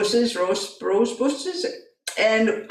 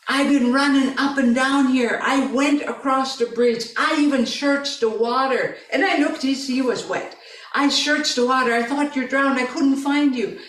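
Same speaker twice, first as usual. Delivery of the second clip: frantic retelling; 3 semitones higher than usual. Retold or imitated. Son recounts frantic search.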